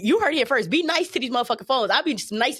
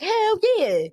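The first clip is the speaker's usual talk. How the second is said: hyped hell yeah; 9 semitones higher than usual. Retold or imitated. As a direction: shout it like you're fired up. Hyped reaction to AI's praise.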